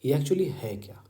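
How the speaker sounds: unvoiced, breathy whisper; teacher musing in a whisper; whispered question. Real, not acted. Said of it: "whispered question".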